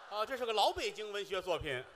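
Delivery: ordinary talk, nothing marked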